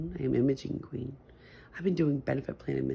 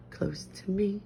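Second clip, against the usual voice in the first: unvoiced whisper, softer; 5 semitones higher, 5 dB quieter, slower than usual. Real, not acted. Whispering about the dog snuggled close, whisper. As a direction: whisper it tenderly over the sleeping dog.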